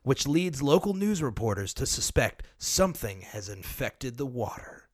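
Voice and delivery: lightly voiced trailer narrator, with laughs; movie trailer voice. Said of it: "I'm gonna do it like movie trailer voice".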